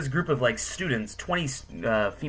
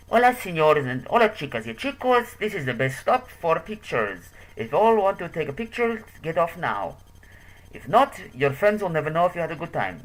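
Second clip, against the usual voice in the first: tour guide impression; 6 semitones higher than usual. Tour guide urging passengers off for pictures, high projected call. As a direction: imitate an accented guide calling out to the bus.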